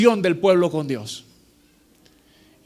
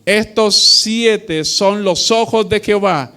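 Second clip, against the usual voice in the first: solemn scripture reading. Acted. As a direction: proclaim the verse to the congregation. Reads scripture aloud in sermon.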